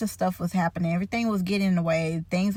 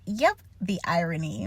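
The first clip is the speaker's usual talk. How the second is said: laughing through the words, half crying; laughing at the irony; 3 dB quieter than usual. Real, not acted. Telling the nurse about the irony, laughing helplessly. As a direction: crack up at your own joke.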